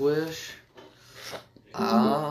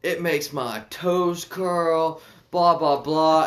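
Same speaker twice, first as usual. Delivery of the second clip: slow dreamy quote; much slower than usual. Retold or imitated. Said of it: "the lady was like".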